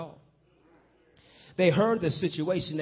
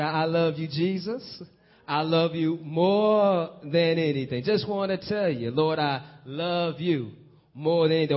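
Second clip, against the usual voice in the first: louder, slow, drawn-out adoring cry; excited love declaration; 5 dB louder than usual. Retold or imitated. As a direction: pour out love for Jesus, loud and slow. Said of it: "That's why we get excited".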